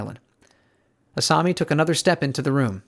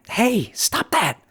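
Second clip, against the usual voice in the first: much higher, slow, held-back call; raised voice; 10 semitones higher, much slower than usual. A narrator's reading. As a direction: raise the voice but not too far. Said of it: "Asami raised her voice as much as she dared".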